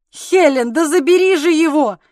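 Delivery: loud, high urgent call; exclamation. A narrator's reading. Husband urging his wife to take the baby, loud and high. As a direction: call to her loudly to take the baby now. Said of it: "воскликнул он затем".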